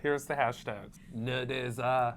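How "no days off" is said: slow L.A. caption voice; lazy, stretched L.A. cool-guy read; Mohira impression. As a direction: drag it out like a mock Hollywood bro. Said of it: "I'm gonna start voicing all of his captions".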